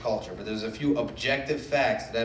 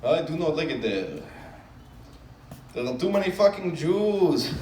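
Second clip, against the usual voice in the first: security guard voice; 3 semitones higher than usual. Retold or imitated.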